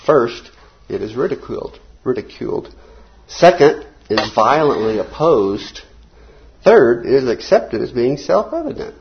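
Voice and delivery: deliberate reading, paused after each stage; slow quote reading. Real, not acted. Teacher reading the class a barbed quote on truth, slow and deliberate. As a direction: read it out slowly, setting each point apart.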